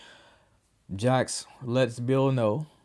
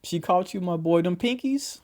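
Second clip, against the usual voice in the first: laughing mock; 8 semitones higher than usual. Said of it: "I was like".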